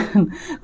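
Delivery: brief, soft laugh; a quick quiet chuckle mid-sentence; short chuckle. Real, not acted. Reader amused at viewers being good at spending, short chuckle.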